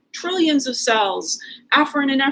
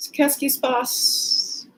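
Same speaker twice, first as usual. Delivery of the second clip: French; slower than usual. Shown as a demonstration. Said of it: "trying to say French words".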